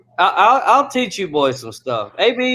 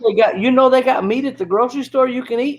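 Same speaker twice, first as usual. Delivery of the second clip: imitating friend; 7 semitones higher, faster than usual. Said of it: "He said".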